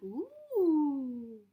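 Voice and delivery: loud, high delighted ooh; girl's delight. Retold or imitated. Reader voicing the girl spotting the bear, a loud high ooh. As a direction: coo over the bear like the little girl. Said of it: "She's like".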